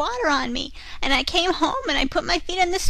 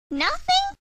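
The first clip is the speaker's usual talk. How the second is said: disbelieving; 5 dB louder than usual. A narrator's reading. Repeated in disbelief.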